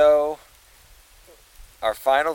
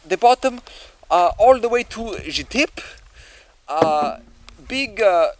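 put-on Russian accent; 3 semitones higher than usual. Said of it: "Are you Russian?".

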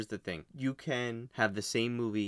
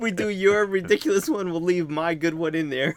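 excited; 7 semitones higher, 8 dB louder than usual. Real, not acted. Excited teasing plan.

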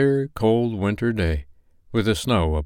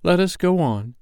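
higher, solemn ghostly warning; ghost of Christmas past; 10 semitones higher than usual. Acted. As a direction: speak as an otherworldly spirit giving a warning. Ghost leads on.

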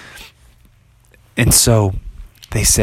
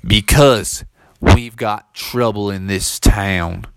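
slow grave drawl; a weary townsman, slow and heavy; slow western townsman; cowboy local; 2 semitones lower, slower than usual. Acted. Local explains trouble.

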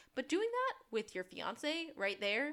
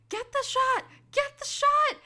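high, loud mock yell, much higher; frantic high-pitched mock shout; 12 dB louder than usual. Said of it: "Sean just keeps yelling".

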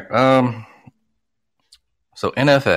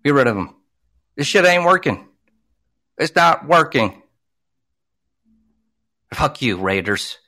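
heated, higher-pitched venting at the team owner; angry rant; 3 semitones higher than usual. Real, not acted. Fan rants at the Raiders owner, heated and fed up. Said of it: "I'm going on a rant".

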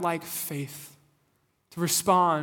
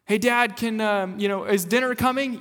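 put-on higher, louder kid voice; child asking dad; 4 semitones higher, 5 dB louder than usual. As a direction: ask like an eager hungry kid. Daughter asks dad about dinner.

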